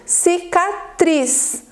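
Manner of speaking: "cicatriz" sounded out with weight on "triz"; "cicatriz" in syllables, "triz" strongest; stress on final syllable. Shown as a demonstration. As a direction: lean on the last syllable of "cicatriz". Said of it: "a sílaba forte da palavra".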